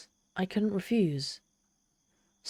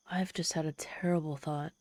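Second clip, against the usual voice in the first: softer, whispered realisation; dawning dread; 6 dB quieter than usual. Acted. Demon whispering her sudden fear to the human. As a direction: hush as the horror dawns.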